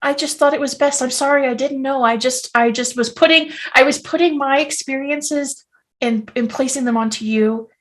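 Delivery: gentle, halting apology; deeply sorry. Acted. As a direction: explain softly and apologetically. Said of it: "that he is deeply sorry".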